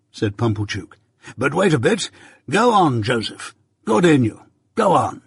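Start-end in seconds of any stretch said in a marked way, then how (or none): 1.4-5.2 high-pitched, self-important urging; pompous encouragement. A narrator's reading. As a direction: egg him on like a patron. Pumblechook urges Joe on.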